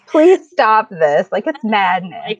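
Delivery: slow, drawn-out mock plea; deadpan, dragged-out complaint; mock exasperation. Daughter answering her teasing mom, slow mock exasperation. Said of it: "And I'm like".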